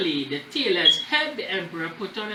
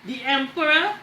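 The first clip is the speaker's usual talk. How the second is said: put-on high, loud child's cry, drawn out; child's shout; 9 semitones higher, 6 dB louder, slower than usual. Little boy shouting at the emperor, high and loud. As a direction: call it out to the whole crowd.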